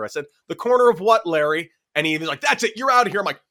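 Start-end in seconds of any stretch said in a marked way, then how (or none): 0.5-1.7 pitched-up, louder sarcastic jab at the umpire; mock indignant retort. Player mocking umpire's strike call, pitched-up indignant retort. 2.4-3.2 higher-pitched mock umpire tossing him out; imitated umpire ejection. Umpire ejecting the batter, higher mock umpire voice.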